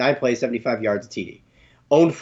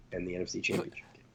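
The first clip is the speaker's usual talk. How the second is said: whispered aside; 5 semitones lower, 15 dB quieter, faster than usual. Real, not acted.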